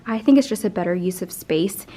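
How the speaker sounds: talking while catching her breath; breathless from moving tables. Real, not acted. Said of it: "I'm gonna be out of breath this whole video".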